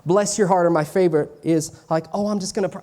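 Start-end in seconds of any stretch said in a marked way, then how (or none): 0.0-0.7 lightly put-on Southern accent. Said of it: "I'm doing this in a Southern accent". 2.1-2.8 higher-pitched put-on Southern accent. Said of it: "I'm doing this in a Southern accent".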